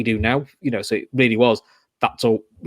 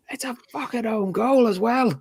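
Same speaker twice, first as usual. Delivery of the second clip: high, slow mock moan of a sour rival fan; 11 semitones higher than usual. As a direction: whine it like the sore loser in the pub. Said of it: "the Man United fan who'd been giving stick".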